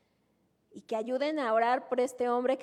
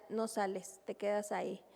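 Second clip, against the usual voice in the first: stern husband; 2 semitones lower, 4 dB quieter than usual. Retold or imitated. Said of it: "a su esposa le decía".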